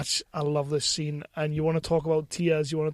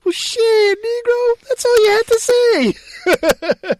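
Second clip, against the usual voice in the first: much higher, loud, slow hammed-up Samuel L. Jackson voice; Sam Jack impression; 10 dB louder, much slower than usual. Host imagining Samuel L. Jackson ending the scene, loud hammed-up impression. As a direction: shout it out like an over-the-top Samuel L. Jackson. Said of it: "Sam Jack to go".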